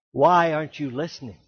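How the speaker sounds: ordinary talk, nothing marked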